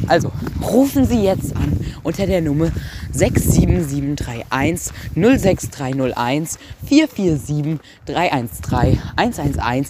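infomercial. Pretend. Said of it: "Jetzt müssen wir vernünftige Werbung machen".

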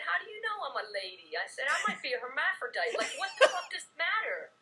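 mildly exasperated comeback, half laughing; mock outrage with a laugh in it; retold indignant retort. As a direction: push back at a heckler, amused. Retells snapping back at a heckler.

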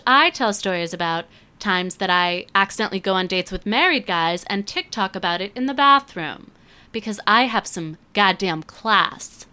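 strained, fading losing voice. Real, not acted. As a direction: talk through a voice that's going. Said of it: "Why do I feel like I'm losing my voice?".

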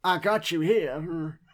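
slow, mock woman's voice; a man hamming up a lady. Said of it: "is that your lady voice?".

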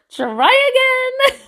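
high, loud, laughing jeer; laughing dismissal. Real, not acted. Vlogger mocking a caller named Destiny's Child, laughing hard. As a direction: crack up while saying it.

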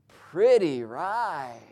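very slow, drawn-out admiring stranger; strange talker. Retold or imitated. Stranger looking over the car, talking strangely slowly. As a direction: stretch both words way out, oddly. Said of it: "he talked a little strange".

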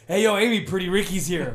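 breezy, self-assured announcement; confident. Retold or imitated. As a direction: say it like you own the place. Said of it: "Like, confidently".

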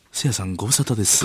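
軽部. Acted. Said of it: "軽部アナと遭遇する".

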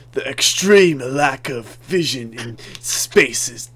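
slow mock evil overlord pronouncement; drawn out like a film villain; super villain voice. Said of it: "like a super villain".

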